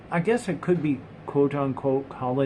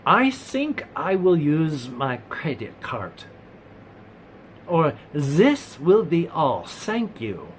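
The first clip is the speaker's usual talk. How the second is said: non-native English speaker; 3 semitones higher, slower than usual. Retold or imitated. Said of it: "this gal come up and she says".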